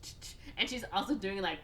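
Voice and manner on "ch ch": sharp repeated "ch" sounds; imitated brush noise. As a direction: mimic hard makeup dabbing with the mouth. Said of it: "doing it really hard so you can hear".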